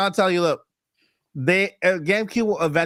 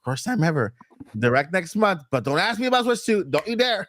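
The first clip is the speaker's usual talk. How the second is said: imitated attitude; 3 semitones higher than usual. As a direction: lay down terms like a touchy executive. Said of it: "heard the attitude in his voice".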